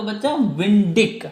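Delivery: विंडिक said slowly and firmly; slow down on the key part; slow emphatic. Shown as a demonstration. Teacher stressing the leftover part to students. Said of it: "तो बचा क्या आपका?".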